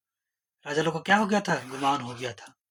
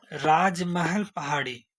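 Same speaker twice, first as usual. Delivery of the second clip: slow spelled-out name; much slower than usual. Shown as a demonstration. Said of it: "इसको कैसे याद रखें?".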